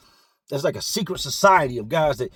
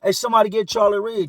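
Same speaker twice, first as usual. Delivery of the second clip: yelled through a window, higher and louder; calling out; 5 semitones higher, 5 dB louder than usual. Retold or imitated. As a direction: call across the pod for Charlie Reed.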